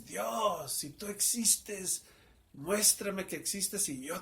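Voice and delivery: loud desperate plea to God; crying out to God. Retold or imitated. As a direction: call up to heaven, begging for a sign. Pleading aloud to God.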